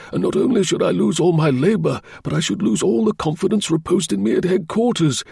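high, anxious client voice; anxious engineer. Acted. Engineer facing ruin over stolen drawings, anxious high voice. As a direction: plead the case as a worried engineer.

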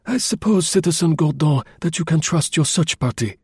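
high, clipped, doubtful question; curt remark. A narrator's reading. Chauvelin doubting Gourdon's men, a curt high remark. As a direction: needle him with a curt doubt. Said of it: "he remarked curtly".

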